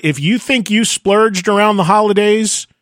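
dryly sarcastic teaser. Real, not acted. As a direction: tease the guest's wild binge with mock drama. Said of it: "I say sarcastically".

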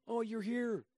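high, held-pitch character voice; exaggerated high-pitched impersonation; put-on wrestler voice. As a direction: play the wrestler awkwardly explaining himself. Same wrestler voiced backstage in story.

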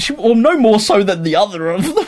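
laughing through the words. Real, not acted. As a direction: chuckle as you speak. Laughing while talking.

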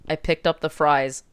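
flat, stiff formal dad; lightly voiced robotic dad. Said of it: "in a very, like, robotic way".

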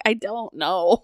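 drawn-out, puzzled imitation of the husband; slow bewildered mock. Wife imitating husband's failed accent, slow and baffled. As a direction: stretch it out, lost and confused. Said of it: "You're like".

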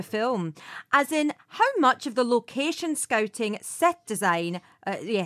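shaky attempt at a Scottish accent; wobbly Scottish accent, halting at the end. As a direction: try Scottish and let it slip midway. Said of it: "doing a Scottish accent".

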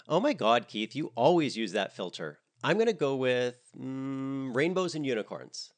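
high, loud bubbly chatter. A narrator's reading. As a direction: gush like a valley girl. Miranda chirps about filters.

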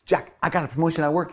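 high, bright-eyed burst of news; bubbling over with good news; super happy. Retold or imitated. Wife tells husband about her promotion, thrilled and excited. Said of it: "super happy".

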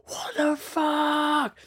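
high, drawn-out slow disbelief; shocked outburst. Retold or imitated. Friend quoting his mate hearing the ghost, high stunned slow cry. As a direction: stretch it out, stunned and spooked. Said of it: "he just goes".

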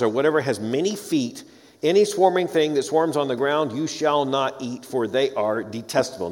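measured, weighty reading of scripture. Acted. Lecturer reading Leviticus to his class, solemn scripture reading. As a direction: read the law aloud with gravity. Reads Leviticus passage aloud.

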